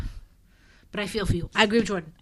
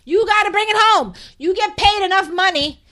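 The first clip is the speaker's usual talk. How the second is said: loud, high-pitched argument; emphatic insistence; 9 semitones higher, 6 dB louder than usual. Real, not acted. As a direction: insist forcefully, voice raised. Heated argument about actor's effort.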